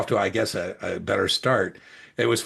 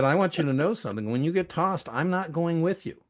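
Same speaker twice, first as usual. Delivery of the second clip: raised, deliberate warning to a rowdy friend; mock stern warning; 9 semitones higher than usual. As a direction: lay down the law half-jokingly, pitch up. Warning his courtside neighbour.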